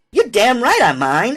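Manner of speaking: mock very high, sharp, angry snapping voice. Reading a story aloud, answering the guard's request to search her bag: snapping angrily. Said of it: "I snapped".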